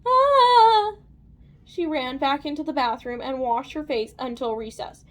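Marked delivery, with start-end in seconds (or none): 0.0-1.0 loud, high-pitched squeal of disgust; horrified yell. A narrator's reading. Lacey recoils from Johnny's kiss, horrified yell. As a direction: yell it, rising into a scream.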